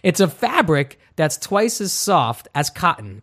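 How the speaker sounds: slow, halting delivery with odd emphasis; Christopher Walken. Real, not acted. Host slipping into an impression during an underwear ad, light Walken cadence. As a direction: lightly slip into a famous actor's halting cadence. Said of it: "I just went Christopher Walken".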